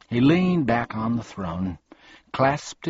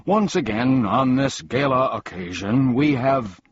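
formal speech; 4 semitones higher, 5 dB louder than usual. A narrator's reading. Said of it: "his voice echoing".

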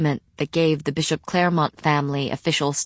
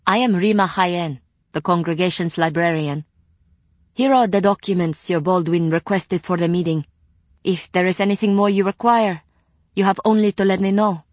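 put-on higher, louder young woman; lightly voiced courteous librarian; polite librarian voice; 3 semitones higher, 3 dB louder than usual. Rima introduces herself.

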